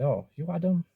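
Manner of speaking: a light put-on Asian accent for the worker's line; mock Asian accent. Retelling the counter girl asking his name in a mock Asian accent. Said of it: "I shouldn't do that accent".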